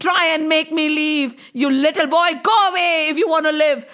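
forceful, blustering monster threats; menacing serpent. Acted. Serpent refuses to leave and threatens Krishna, menacing. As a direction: bellow back like a stubborn villain.

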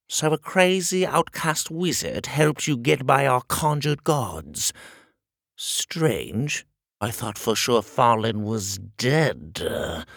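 slow, suspicious shrill king; musing with menace; pompous shrill tyrant. Acted. King voice held.

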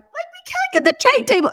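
high, teary pleading; crying mom. Retold or imitated. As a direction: plead through tears with a toddler. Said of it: "I'm like".

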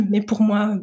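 throat clearing, voice fading; struggling to get words out; voice giving out. Real, not acted. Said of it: "J'ai plus de voix".

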